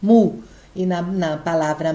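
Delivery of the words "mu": "Mu" said alone, firm and louder; stressed syllable alone. Shown as a demonstration. Teacher answers own question, strong syllable "Mu" on its own. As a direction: give "Mu" as one strong isolated beat. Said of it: "a mais forte é qual?".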